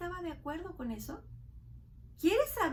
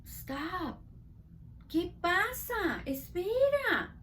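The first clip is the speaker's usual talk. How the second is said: slow halt; 3 semitones higher, much slower than usual. Acted. Teacher halting the child act.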